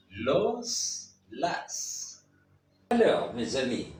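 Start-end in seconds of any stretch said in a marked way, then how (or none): 0.1-2.2 "Los, las" each ending in an audible s; final S pronounced. Shown as a demonstration. Teacher shows the Spanish final S to learners, final s sounded. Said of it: "le S final se prononce toujours".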